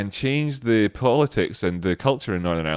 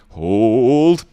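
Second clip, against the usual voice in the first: loud drawn-out call of hold; mock battlefield command; commander's order; 3 semitones higher, 8 dB louder than usual. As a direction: shout it like a commander holding the line. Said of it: "if I was the commander".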